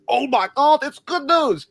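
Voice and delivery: high, loud mock gush; mock excited fans. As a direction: parody the hyped-up fans squealing. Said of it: "And everybody's like".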